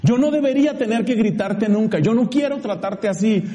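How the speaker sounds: a loving dad forced to scold; father's voice. Retold or imitated. Father to his son, a hint of pained scolding.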